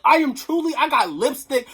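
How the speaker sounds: usual speaking voice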